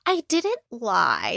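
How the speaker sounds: slow, drawn-out mock protest; mock denial. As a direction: imitate her stretching out a denial. Acted denial in quoted quarrel.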